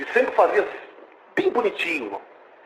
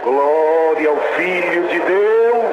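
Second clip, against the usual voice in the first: slow, loud glory shout; a preacher lifting praise to the church; drawn-out praise; 4 dB louder, much slower than usual. Real, not acted. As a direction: stretch each word in worship.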